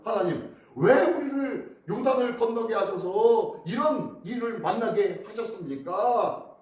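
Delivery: lament. Retold or imitated. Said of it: "울분을 토하면서".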